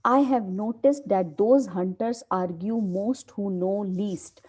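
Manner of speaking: slow, deliberate reading of a play line; dramatic play reading. Acted. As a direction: read it out slowly like a script. Teacher reads play aloud.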